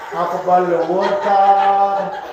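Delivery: lightly put-on Russian accent, drawn out; slow line endings in a mock Russian accent. Mimicking Russians in the audience.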